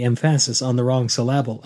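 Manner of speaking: "emphasis" as em-PHA-sis, "syllable" as syl-LAB-le; wrong-syllable stress. Retold or imitated. Slipping in a movie quote, "emphasis" and "syllable" stressed on second syllables. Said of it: "did you just quote that one old movie".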